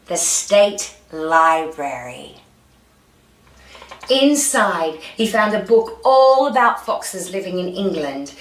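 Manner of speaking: lively read-aloud storytelling; story narration. A narrator's reading. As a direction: read it out like a picture book for children.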